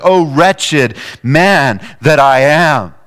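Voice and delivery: slow, pleading lament; slow lament of a sinner; anguished cry of Paul. Acted. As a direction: cry it out like a broken man. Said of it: "He's like".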